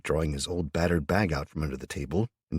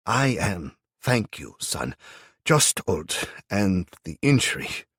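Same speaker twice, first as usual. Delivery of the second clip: put-on raised, slow old man voice; old German man; 3 semitones higher, 4 dB louder than usual. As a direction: speak as a kindly old German.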